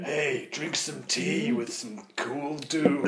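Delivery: lightly voiced surfer-dude advert; cool dude ad. Hiring a cool guy for tea ads, lazy dude voice. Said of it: "hire this guy over here".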